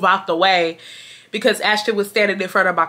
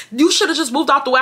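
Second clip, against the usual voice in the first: blunt and cold; 5 semitones higher than usual. Retold or imitated. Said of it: "I'm telling her straight up".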